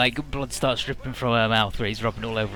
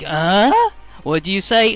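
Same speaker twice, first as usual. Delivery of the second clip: higher, louder menacing huh; mock menace; 7 semitones higher, 8 dB louder, slower than usual. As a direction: threaten the girl in a hammed-up snarl. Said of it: "And he's like".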